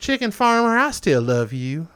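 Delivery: swooning high-pitched plea on farmer; a hammed-up romantic confession; mock lovesick declaration. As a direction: play it like a lovesick suitor calling out. Rereads the rock message dramatically.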